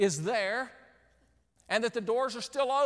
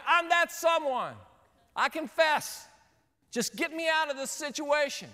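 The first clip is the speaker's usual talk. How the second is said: higher-pitched, hammed-up plea; mock desperate confession; 5 semitones higher, 3 dB louder than usual. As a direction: plead comically to be let out. Trapped man pleads with announcement voice.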